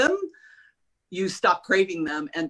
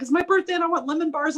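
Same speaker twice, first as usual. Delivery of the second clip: imitating a coworker's request; 10 semitones higher, 4 dB louder, faster than usual. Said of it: "She's like".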